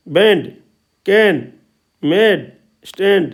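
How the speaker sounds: "बैंड", "कैन", "स्टैंड" with an open ऐ vowel; open ऐ sound. Shown as a demonstration. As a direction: drill "मेड" and "स्टैंड" slowly, vowel open. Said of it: "ए का उच्चारण आता है आई की ध्वनि में". ("बैंड", "कैन" में खुली ऐ की ध्वनि)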